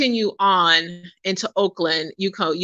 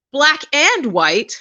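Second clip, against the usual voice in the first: "black and white" slow and high, held apart; audible air quotes; 6 semitones higher, much slower than usual. Real, not acted. Speaker questioning racial labels, air-quoting "black and white". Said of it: "I'm using air quotes here".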